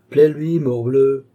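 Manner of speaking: high, loud exhortation; acted impatient outburst; emphatic urging. A narrator's reading. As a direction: press the order home forcefully. Uncle urging his nephew on.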